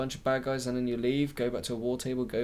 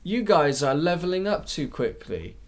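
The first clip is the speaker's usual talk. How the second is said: mocking developer voice; 6 semitones higher, 4 dB louder than usual.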